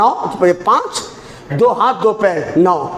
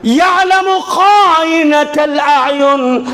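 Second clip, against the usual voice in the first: slow recitation; 3 semitones higher, much slower than usual. Acted. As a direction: draw the verse out with force. Repeated verse, louder slower.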